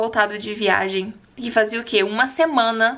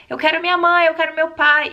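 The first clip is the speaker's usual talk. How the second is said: mock child wailing; 5 semitones higher, 4 dB louder than usual. Voicing the crying little girls.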